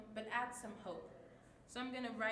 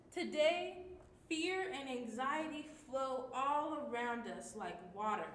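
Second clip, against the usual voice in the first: upbeat excited; 4 dB louder, slower than usual. Shown as a demonstration. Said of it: "an excited, like, uplifting tone".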